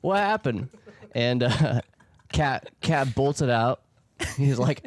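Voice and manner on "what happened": surprised. Retold or imitated. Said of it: "That's exactly what they said".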